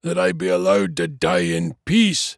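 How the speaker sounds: high, rising dwarf lament; exasperated dwarf. A narrator's reading. Dwarf appealing to the lamp overhead, exasperated. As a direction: build the complaint, high and strained.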